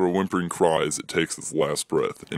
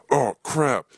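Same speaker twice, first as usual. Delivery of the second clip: higher excited outburst; excited yell; 8 semitones higher than usual. Acted. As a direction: blurt it out, suddenly remembering. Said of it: "he yells in an excited tone".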